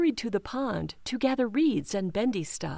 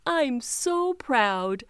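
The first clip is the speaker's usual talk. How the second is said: tender; 3 semitones higher, much slower than usual. Acted. Proud mama speaks slowly.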